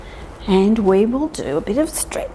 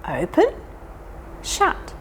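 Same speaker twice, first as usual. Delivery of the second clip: whispered shut; 7 semitones higher, 5 dB quieter, slower than usual. Shown as a demonstration. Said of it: "can you do this".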